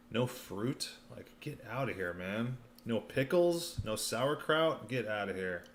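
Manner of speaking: scoffing, rising disbelief; no way, laughing it off; incredulous. Real, not acted. Mocking carnivore diet rules.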